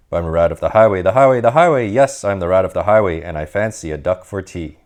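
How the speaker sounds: lightly voiced swaggering rat, chanting his demands; a hint of a greedy bandit bragging; boastful highway rat. Rat threatens the duck.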